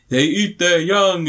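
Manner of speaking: high, slow, drawn-out movie line; mock dramatic warning. Hero warning the spider-man villain, hammed-up dramatic line. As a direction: stretch it out like a hammy revelation.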